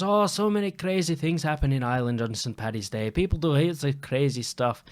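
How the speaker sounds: lightly put-on Irish accent. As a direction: keep imitating the Irishwoman's accent. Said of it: "I gotta keep the accent".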